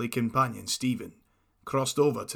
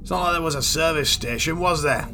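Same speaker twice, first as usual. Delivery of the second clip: exasperated loud rant; 3 semitones higher, 7 dB louder than usual. Acted. Exasperated about needing a wee.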